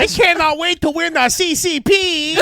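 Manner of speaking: put-on high, loud caricatured Asian accent; mock Asian accent. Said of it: "you guys do an Asian voice".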